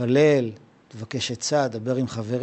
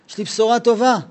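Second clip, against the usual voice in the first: happy son; 6 semitones higher, faster than usual. Acted. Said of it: "הבן בא לאבא שלו שמח".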